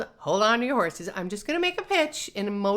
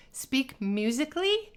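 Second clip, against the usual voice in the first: musical speech; 5 semitones higher than usual. Shown as a demonstration. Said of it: "Number one".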